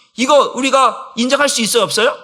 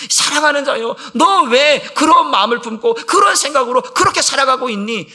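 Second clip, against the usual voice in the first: tender divine voice; 5 semitones higher, 4 dB louder than usual. Acted. Pastor voicing the Spirit gently calling a beloved child, mildly tender. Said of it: "성령께서 나에게 말씀하실 때".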